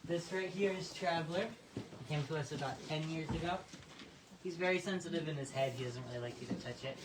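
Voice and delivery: breathless after running; out of breath. Real, not acted. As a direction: talk while catching your breath. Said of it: "I'm so out of breath 'cause I just chased another horse".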